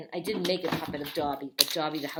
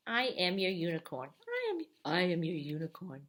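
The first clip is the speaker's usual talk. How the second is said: unicorn voice. Pretend. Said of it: "That's probably how they talk".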